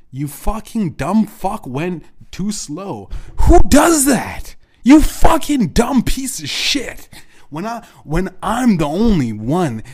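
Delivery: high, loud screaming rage; furious scream. Real, not acted. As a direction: scream the insults at him full force. Screaming insults at dad.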